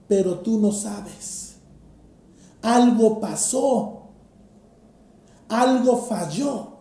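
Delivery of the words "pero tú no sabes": "pero tú no sabes" dropped softer, leaning on no; stress on no. Shown as a demonstration. Preacher answers his own quote, softer with no stressed. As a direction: let "no" carry it, quietly. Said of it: "Un contraste".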